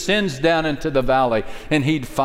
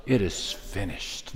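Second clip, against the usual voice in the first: hushed final cry; 6 semitones lower, 9 dB quieter, slower than usual. Acted.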